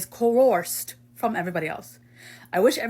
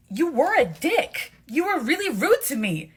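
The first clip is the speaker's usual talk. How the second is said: heated quarrel; 4 semitones higher than usual. Acted. Heated quarrel over an insult.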